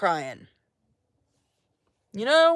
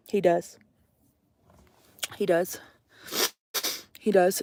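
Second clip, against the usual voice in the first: softer and softer, half to herself; quiet insistence; 4 semitones lower, 9 dB quieter than usual. Real, not acted. Telling Stomp that Mark still loves her, trailing quietly. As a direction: let each repeat fade lower.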